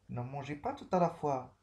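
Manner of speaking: a teacher's stern no; firm prohibition. Shown as a demonstration. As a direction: forbid it firmly. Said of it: "Interdiction ici".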